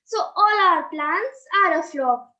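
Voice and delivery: rhythmic recited verse, steady and clear; sing-song stage recitation; poem recital. Acted.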